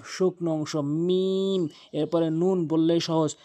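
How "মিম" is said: drawn-out "মিম" closing on both lips; two-lip meem. Shown as a demonstration. Teacher demonstrating the letter, long lip-closed "মিম". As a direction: lengthen "মিম" and hum it shut. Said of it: "দুই ঠোঁটের".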